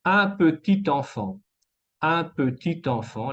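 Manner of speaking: un petit enfant with the t linked; liaison in T. Shown as a demonstration. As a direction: say "petit enfant" as peti-tanfan. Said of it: "la T se conecta".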